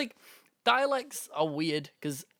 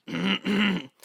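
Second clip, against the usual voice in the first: lightly put-on Irish accent, raised pitch; a half-hearted Irish imitation; mock Irish voice; 6 semitones higher, 3 dB louder than usual. Mimicking a fellow YouTuber's Irish accent, light mock. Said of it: "does not sound anything fucking like that".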